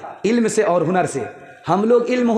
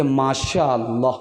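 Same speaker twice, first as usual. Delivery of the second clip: low, drawn-out praise, mildly acted; approving daughter; 7 semitones lower than usual. Daughter approving of her in-laws' home, approving. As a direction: savour the word slowly, lightly acted. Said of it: "तुम्हारी आवाज़ से पता चल गया".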